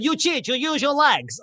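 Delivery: high, slow mock-outraged protest; annoyed Russian. Beaten fighter accuses the winner of cheating, mock annoyed. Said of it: "he got really annoyed".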